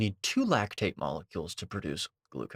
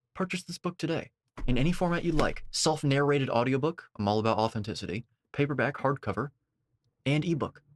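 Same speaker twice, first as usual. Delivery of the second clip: higher-pitched sales read; book plug; 5 semitones higher than usual. Acted. Plugs own book mid-commentary.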